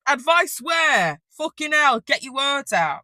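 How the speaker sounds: loud, high, drawn-out outburst at oneself; exasperated self-scolding. Real, not acted. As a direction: berate yourself for fumbling your words. Scolds herself for stumbling over words.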